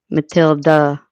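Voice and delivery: "Matilda" ending in a short uh; unstressed final vowel. Shown as a demonstration. Streamer sounding out a name, short unstressed ending. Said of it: "like the A in sofa".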